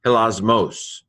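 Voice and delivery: Hilasmos with stress on the final -mos; Hilasmos, accent landing on mos; stress on the accented syllable. Shown as a demonstration. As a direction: lean on the last syllable of Hilasmos. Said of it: "in my pronunciation, stress the accent".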